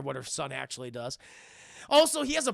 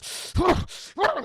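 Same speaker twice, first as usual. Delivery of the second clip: high, loud exasperated noise; imitated frustrated growl; 13 semitones higher, 7 dB louder than usual. Boyfriend fuming over the contract, exasperated growl.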